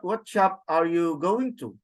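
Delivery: "what shop are you going to" lifted towards the end; demonstrated English question tune; question intonation. Shown as a demonstration. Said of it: "it goes up".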